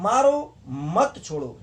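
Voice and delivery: "मारो मत छोड़ो" read slowly with a slight pause after "मारो"; slow demo phrasing. Shown as a demonstration. Teacher shows students the sentence that orders a beating, slow deliberate read. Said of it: "यहाँ पे मारने को कह रहा है".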